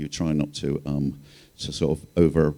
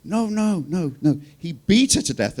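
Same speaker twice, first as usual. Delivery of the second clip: police chief; 10 semitones higher, slower than usual. Retold or imitated. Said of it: "the police chief goes".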